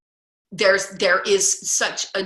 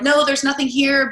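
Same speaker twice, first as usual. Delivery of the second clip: mock denial; 8 semitones higher, 5 dB louder than usual. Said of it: "they're kinda like".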